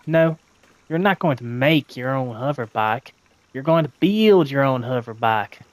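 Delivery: a hint of a southern machinist, firm; Cizo's southern accent. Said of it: "I used a southern accent".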